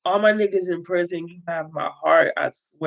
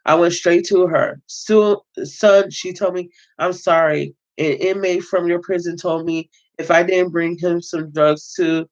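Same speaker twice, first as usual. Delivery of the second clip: steady read-aloud narration of a prison memoir; reading a novel aloud. Acted. Reader voicing the book's narrator, read-aloud narration. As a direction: read it like a story to your viewers.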